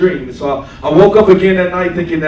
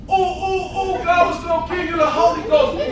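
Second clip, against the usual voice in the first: imitating an excited churchwoman; 10 semitones higher than usual. Imitating Don shouting in worship.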